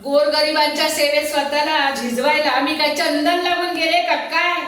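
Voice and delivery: loud, mocking rhetorical question; scornful outburst. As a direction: scoff loudly at the very idea. Alone, scoffs at her charity pose.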